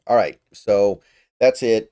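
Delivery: talking through a yawn; slow, drawn-out yawny words. Real, not acted. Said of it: "Sorry for all the yawning".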